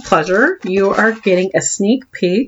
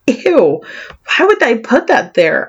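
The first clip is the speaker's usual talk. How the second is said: put-on higher, innocent little girl question; naive kid voice; 4 semitones higher than usual. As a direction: ask it like a clueless child. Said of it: "I'd ask naively".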